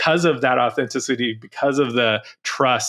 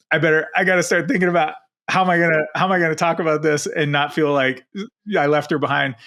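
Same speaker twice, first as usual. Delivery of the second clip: fast, higher anxious rush; retold mock panic, rushed and higher; panicked rush; 5 semitones higher, faster than usual. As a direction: race through the worry. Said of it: "I got a cold sweat".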